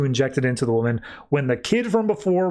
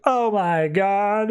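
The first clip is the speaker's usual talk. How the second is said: drawn-out, higher-pitched mock dismay; retold shock; 7 semitones higher, much slower than usual. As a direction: act out a slow, stunned realisation. Acted shock at parents' killer revealed.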